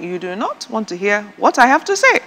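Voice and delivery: emphatic inner retort, pitch climbing; mock warning. Wife retorts in her mind to her husband, emphatic mock warning. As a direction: voice a pointed silent warning.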